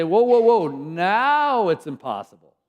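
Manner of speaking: mock panic at an impossible problem; alarmed exclamation. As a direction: throw up your hands in alarm. Overwhelmed believers exclaiming.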